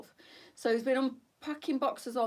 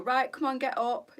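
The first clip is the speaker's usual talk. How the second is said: broken English; 6 semitones higher, 5 dB louder than usual. Retold or imitated. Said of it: "in his broken English".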